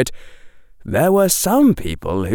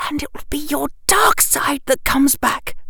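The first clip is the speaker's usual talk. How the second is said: whisper. Acted. Ominous warning in story.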